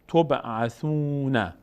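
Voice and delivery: تبعثون said with a closing short "a", "-ūna"; final fatha sounded. Shown as a demonstration. Teacher shows learners the word before stopping, final fatha sounded on تبعثون. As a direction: stretch the "ū" in تبعثون, then sound "na". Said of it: "آخرش فتحه داره".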